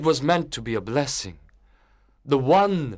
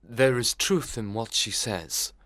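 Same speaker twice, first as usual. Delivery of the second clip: slow, gentle minister; a touch of tremulous conviction; lightly voiced earnest pastor; sweet, tremulous, powerful; 4 dB quieter, slower than usual. A narrator's reading. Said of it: "began the minister with a sweet, tremulous".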